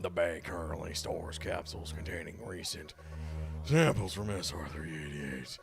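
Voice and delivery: lightly voiced ship computer; robot voice, even and measured. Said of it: "you wanna do the robot voice".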